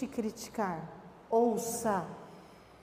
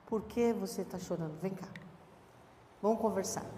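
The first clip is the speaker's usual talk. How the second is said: gentle parent voice; 4 dB quieter than usual. Retold or imitated. Voicing caring parent to child.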